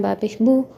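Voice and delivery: बा पेश बू ending in "oo"; Urdu pronunciation. Shown as a demonstration. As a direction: say बू as boo, the Urdu way. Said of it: "Urdu में पढ़ते हैं". (बा पेश बू, उर्दू वाली "ऊ")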